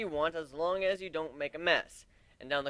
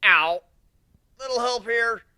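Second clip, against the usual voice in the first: loud, high cry for help; pained shout; 8 semitones higher, 9 dB louder than usual. Acted. Narrator pinned under armor, shouting for help. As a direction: yell it from the floor.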